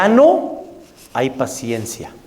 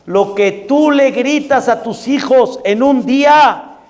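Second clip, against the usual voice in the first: scolding mother; 8 semitones higher, 3 dB louder than usual. Retold or imitated. Mother scolding her daughter.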